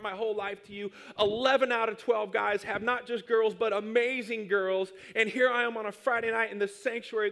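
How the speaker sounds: whiny prayer. Retold or imitated. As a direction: complain to God like a sulking kid. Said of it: "I was just whining".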